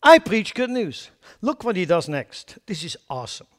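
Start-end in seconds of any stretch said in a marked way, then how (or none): 0.0-1.1 high, loud, bold announcement; defiant cheer. Retold or imitated. Jesus defying Herod's threat with good news, high and bold. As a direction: answer the threat with bold joy. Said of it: "Jesus shows up and said".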